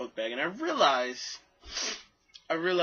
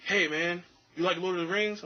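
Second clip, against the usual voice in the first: lightly mimicked odd speaker, a bit high; a hint of a borrowed weird speech pattern; talking like him; 4 semitones higher than usual. Copying the brother to ask about films, lightly imitated. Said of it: "I just started talking like him".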